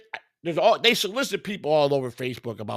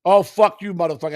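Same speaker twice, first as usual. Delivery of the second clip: mock Indian accent; 7 dB louder than usual. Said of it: "You went to a wannabe Indian voice".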